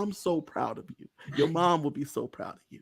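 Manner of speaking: soft, tender praise; acted hushed pride. Ally hears the secret and praises him, hushed and proud. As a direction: gush quietly, as if keeping it secret. Acting out ally's proud reaction.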